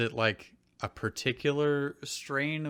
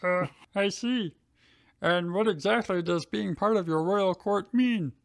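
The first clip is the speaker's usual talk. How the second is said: intrigued Drew; 7 semitones higher than usual. Acted. Drew voice continues.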